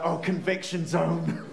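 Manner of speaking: chuckling through the words; laughing admission. Real, not acted. Preacher admitting his heart's reaction, laughing. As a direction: own up with a laugh. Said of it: "in my heart I was like".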